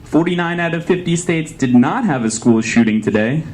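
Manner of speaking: lightly voiced news anchor; newscaster voice.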